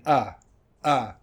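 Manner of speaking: "uh" said too full, as an open "ah"; learner's over-strong "uh"; unreduced schwa. Retold or imitated. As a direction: punch out a full vowel for "uh". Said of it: "difficult to reduce this sound".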